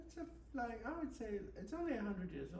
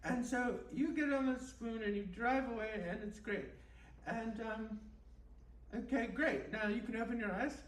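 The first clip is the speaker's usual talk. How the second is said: mock guided meditation. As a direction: lull them along like a spoof meditation tape. Host leads a mock guided meditation.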